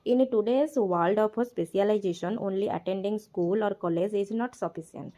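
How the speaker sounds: slow, deliberate reading of the English text aloud; slow textbook reading. Acted. Teacher reads the textbook line aloud, very slowly. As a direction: read each word out slowly for the class.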